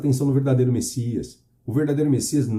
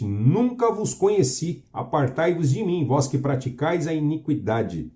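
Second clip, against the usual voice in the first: slow solemn verdict; slower than usual. Acted. Jesus' verdict, read slowly.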